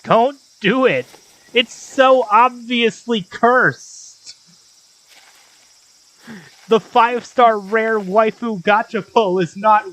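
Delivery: loud, urgent warning; urgent shout. Real, not acted. Warning against cursed machine.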